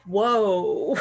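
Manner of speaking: a laughing, gasped whoa of awe; amazed whoa. Retold or imitated. Fan recalling the chilling moment, surprised laughing whoa. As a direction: react to Baby Yoda's force choke with a stunned laugh. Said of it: "There was sort of this sense of like".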